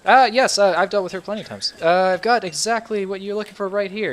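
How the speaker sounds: high-voiced, obliging elf salesman; young elven merchant. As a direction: pitch it up, helping a customer. Game master plays elven merchant.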